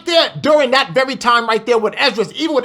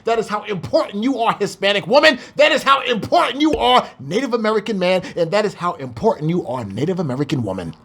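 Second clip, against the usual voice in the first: preaching; 3 semitones lower than usual. Acted. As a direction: lift up each listener by name.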